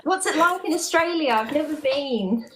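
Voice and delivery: put-on London accent, polite interviewer. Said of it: "with that accent".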